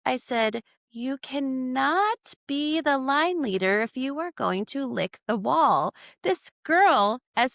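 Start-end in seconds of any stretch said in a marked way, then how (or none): 0.9-5.9 stern teacher warning. Retold or imitated. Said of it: "how ridiculous they sounded".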